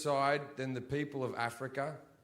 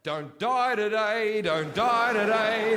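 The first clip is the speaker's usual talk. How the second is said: desperate plea; 2 semitones higher, 5 dB louder, slower than usual. Retold or imitated. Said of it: "what dreams are like in Africa".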